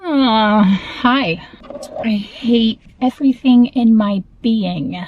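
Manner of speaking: talking while chewing gum. Real, not acted. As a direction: speak around a wad of gum. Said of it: "editing myself chewing gum".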